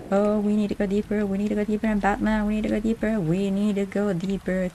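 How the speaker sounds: hyped race commentator calling the marbles; play-by-play, calling every move; announcer voice. Pretend. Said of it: "my announcer voice".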